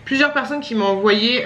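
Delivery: parler en mâchant; bouche pleine. Real, not acted. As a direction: mots mâchés autour d'une bouchée. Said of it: "Je parle la bouche pleine". (bouche encore pleine)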